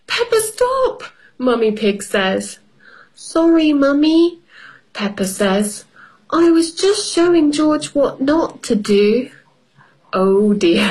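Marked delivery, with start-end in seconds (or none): 0.1-1.0 higher, firm mummy voice; mother voice. Acted. 3.1-4.4 put-on high little girl voice; child voice. Peppa voiced in story. 6.3-9.3 put-on high little girl voice; child voice. Peppa voiced in story.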